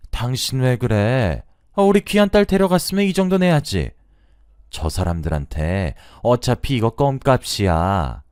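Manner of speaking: high, heated mother-in-law telling off her husband; bickering outburst. Acted. Mother-in-law snapping at husband over wedding gifts, heated and high. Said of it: "계속 투닥투닥 거리시다가".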